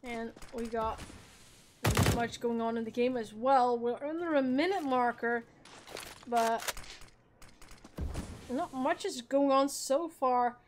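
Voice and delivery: brisk esports caster calling the round; live play-by-play. Acted. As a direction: call the action as it happens. Casting the match live.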